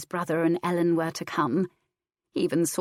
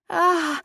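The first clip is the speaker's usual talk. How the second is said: soft cry; 12 semitones higher, 6 dB louder than usual. A narrator's reading. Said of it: "Ellen cried softly".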